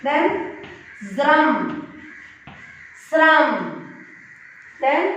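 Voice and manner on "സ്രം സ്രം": സ്രം higher, as one careful syllable; model pronunciation. Shown as a demonstration. Teacher models സ്രം for learners to repeat, higher and distinct. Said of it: "correct pronunciation".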